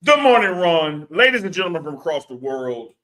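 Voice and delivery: a grand showman's announcement, climbing high; ringmaster. Pretend. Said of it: "let me give her one".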